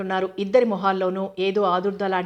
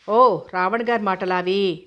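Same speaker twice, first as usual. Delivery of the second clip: dismissive, light; 3 dB louder, slower than usual. Acted. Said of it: "తేలిగ్గా అంది ప్రియంవద".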